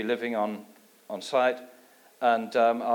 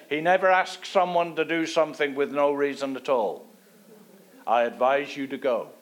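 louder imitated Irish lilt; Irish accent; 3 semitones higher, 4 dB louder than usual. Gordon urging him to accept, in an Irish accent. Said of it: "in his Irish accent".

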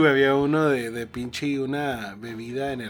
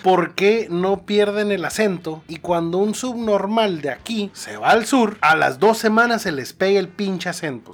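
louder, heated mock rant; 3 semitones higher, 5 dB louder than usual. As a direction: play up an angry rant about outsiders. Ranting about accent-keeping migrants.

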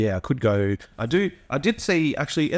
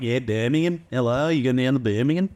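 amateur Birmingham accent impression; light, playful Brummie. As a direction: have a go at Brummie. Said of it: "Birmingham's like".

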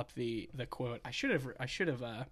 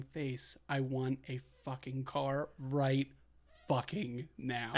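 angry rant. Retold or imitated. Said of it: "this is the whole exchange".

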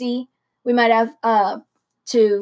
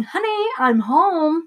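put-on Hitler German accent; 7 semitones higher, slower than usual. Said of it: "in, like, his accent".

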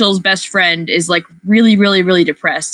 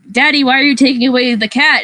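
retold crying; 6 semitones higher than usual. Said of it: "she's, like, crying".

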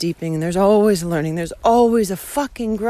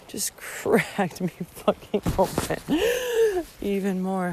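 moved whisper; 6 dB quieter than usual. Real, not acted. Moved by his poem.

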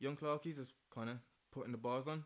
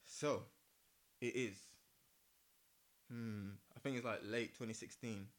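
fireside storytelling; 2 semitones lower than usual. Acted. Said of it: "Get my storytelling voice on".

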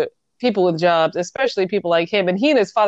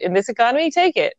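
mock urging; 5 semitones higher, faster than usual. Dad voiced urging him.

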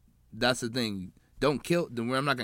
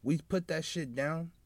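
frat bro; 2 semitones higher than usual. Retold or imitated. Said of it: "kinda making a P S A".

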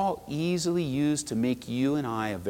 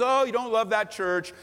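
tempting enemy voice; 7 semitones higher than usual. Retold or imitated. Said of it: "the enemy says".

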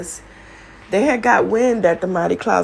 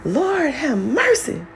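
retold scream; 10 semitones higher, slower than usual. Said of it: "my dad scream out loud".

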